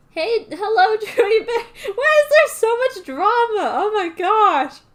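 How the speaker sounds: put-on high, giggly and slow, a sing-song bubbly girl. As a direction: chirp it like a cheerful airhead. Reader voices bubbly Zoe.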